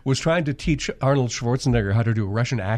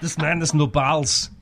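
imitated Arnold accent; 4 semitones higher than usual. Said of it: "and he says".

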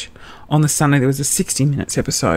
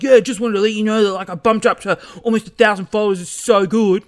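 fast, higher-pitched chatty man impression; put-on excitable, hurried man's voice; Andrew; 6 semitones higher than usual. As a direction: rattle it off high and casual, imitating him. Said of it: "if I was to really read that".

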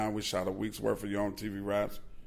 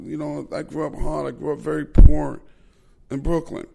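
loud, higher-pitched Brooklyn tough-guy voice; Mike Tyson; 6 semitones higher, 8 dB louder than usual. Retold or imitated. The boxer brags to the host about Brooklyn, loud and high. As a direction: swagger it out like a champ boasting about his hard childhood. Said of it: "And Mike is like".

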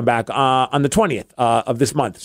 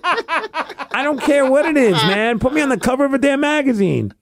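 words squeezed out through laughter, higher; giggling, pitched-up plea; laughing; 9 semitones higher than usual. Real, not acted. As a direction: laugh while pleading to be on a cover. Laughing about magazine cover wish.

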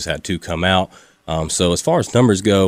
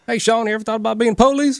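put-on Southern accent. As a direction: imitate a friendly Southern church guy, pitched up. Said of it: "he Southern voice, real Southern guy".

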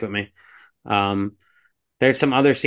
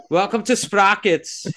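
put-on Sprockets host accent; 7 semitones higher than usual. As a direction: drag it out like a stiff German TV host. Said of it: "really bad German accent".

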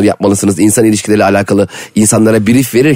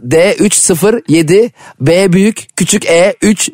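spelling out slowly; 6 semitones higher, much slower than usual. Retold or imitated. Reading a code out slowly.

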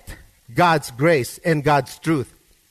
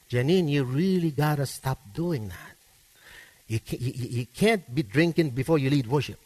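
soft, lower, gentle mock rebuke of a friend; 3 semitones lower, 4 dB quieter, faster than usual. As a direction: quietly pull a friend aside and correct her. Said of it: "not the Bible, but me".

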